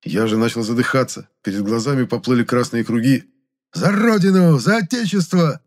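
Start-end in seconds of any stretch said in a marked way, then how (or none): 3.7-5.6 high, loud thin-voiced war cry; thin battle cry. A narrator's reading. Monya charges the sorcerer, crying out in a thin voice. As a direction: yell it bravely in a reedy voice. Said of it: "опять заверещал Моня".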